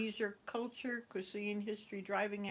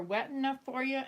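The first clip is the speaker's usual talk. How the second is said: louder Canadian hoser voice with a rising question; 5 semitones higher, 4 dB louder than usual. Retold or imitated. The speaker mimics a hoser asking about the weather, loud hoser voice. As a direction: ham up a cheery Canadian hoser. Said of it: "and then she said".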